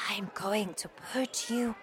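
hushed, breathy whisper. A narrator's reading. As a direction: whisper so nobody hears. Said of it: "My grandmother whispered to me".

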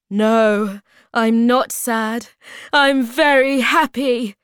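loud, high, happy declaration; delighted. Acted. Hobgoblin delighted by the ruby gift.

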